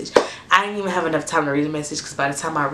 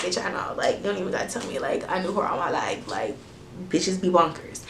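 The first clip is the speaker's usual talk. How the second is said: inner voice; 7 dB quieter than usual. Retold or imitated. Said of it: "in my head, I was just like".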